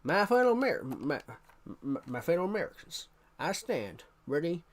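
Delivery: George Bush impression. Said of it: "George Bush was an interesting one to try".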